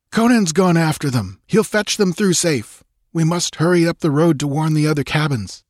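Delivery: calm her but keep moving; Balthus reassuring. A narrator's reading.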